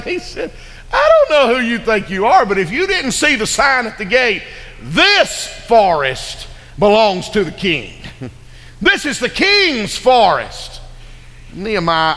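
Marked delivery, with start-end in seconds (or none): 0.9-7.9 raised, booming forester's rebuke; big lumberjack laying down the law, slowing at the end; rough voice. Acted. Keeper scolding the stranger who asks for timber, rough voice. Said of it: "rough voice". 8.8-10.8 high, slow, emphatic proclamation; burly keeper defending his forest; rough voice. Acted. Keeper warning the stranger off the king's land, rough voice. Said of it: "rough voice".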